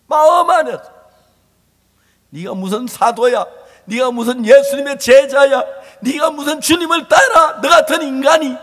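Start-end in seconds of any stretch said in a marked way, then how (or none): 2.3-8.5 loud, high self-accusing yell; inner shouting. Acted. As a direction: rail at yourself in contempt. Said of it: "소리가 막 소리 지르는 거예요".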